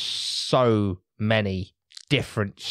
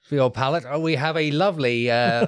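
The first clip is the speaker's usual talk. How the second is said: posh voice; 4 semitones higher than usual. Acted. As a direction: present it like a posh sommelier. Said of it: "You, you put on the posh voice".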